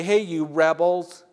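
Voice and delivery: loud, high scolding shout; harsh accusing yell at runaway disciples; angry rebuke. Retold or imitated. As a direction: berate them as rebels and backsliders. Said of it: "He doesn't say".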